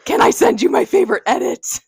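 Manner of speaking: high, loud excited shout; dramatic, over-the-top yelled reading; yelling. Pretend. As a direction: shout the text out in all caps. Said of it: "I love that we're still yelling".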